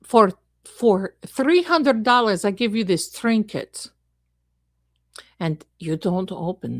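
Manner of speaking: lightly voiced ominous psychic; gypsy fortune teller. Gypsy threatening a client with a curse, lightly put-on fortune teller. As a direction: warn like a hammed-up fortune teller.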